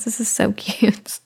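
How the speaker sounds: soft laughing whisper. Real, not acted. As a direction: whisper it with a giggle. Whispering to baby.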